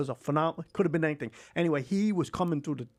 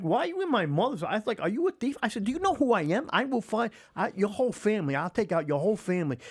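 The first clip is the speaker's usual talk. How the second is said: threatening stranger; 8 semitones higher than usual. Retold or imitated. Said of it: "I'm like".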